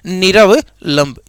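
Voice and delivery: निरवलंब spoken slowly and clearly; slow dictation. Shown as a demonstration. Teacher to students, repeating the word slowly. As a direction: let every syllable of निरवलंब land. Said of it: "निरवलंब शब्द क्या है".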